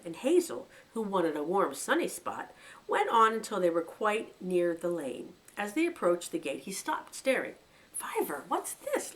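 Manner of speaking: steady storyteller reading a novel aloud; story narration. A narrator's reading. Reader telling a rabbit story to listeners, narrating. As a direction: read the chapter like a bedtime tale.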